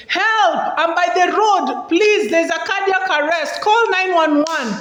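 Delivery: high urgent call for help; shouting for help. Shown as a demonstration. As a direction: call out to someone who can hear you. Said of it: "shouting for help".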